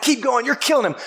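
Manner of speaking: high, eager corner-man yelling; hype man cheer. Retold or imitated. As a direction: cheer him on between rounds. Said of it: "he's patting the fighter on the back".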